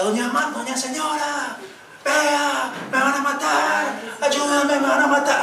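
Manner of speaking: mild mock yell of terror; imitated cry for help. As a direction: imitate a man calling out in fear at night. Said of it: "gritaba por allá".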